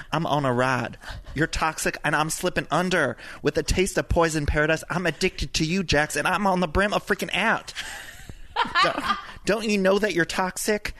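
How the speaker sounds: dramatic reading of song lyrics as reality-star Britney; Britney impression. Reading a song to Jax as Britney, lightly put-on voice. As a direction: ham it up as Britney pouring her heart out. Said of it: "call on the spirit of Britney from Vanderpump Rules".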